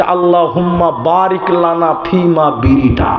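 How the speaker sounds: slow, solemn mock prayer chant; a boy reciting a made-up prayer; mock prayer recital. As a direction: intone the fake prayer slowly and gravely.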